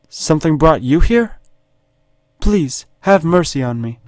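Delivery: high, pleading British damsel; put-on high British accent; British woman. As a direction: beg for mercy in a British lady's voice. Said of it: "I don't know why she's British".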